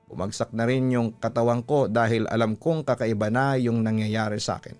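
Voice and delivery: ordinary delivery, nothing marked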